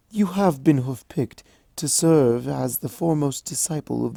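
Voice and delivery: regal, affectionate mentor; lightly voiced royal mentor; gentle princess. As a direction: reassure her student warmly. Celestia's regal warm voice.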